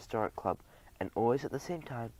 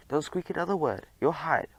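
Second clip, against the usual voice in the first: higher and louder, decisive; firm declaration; 5 semitones higher, 4 dB louder than usual. Acted. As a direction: settle it on the spot. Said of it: "Fogg declared on the spot".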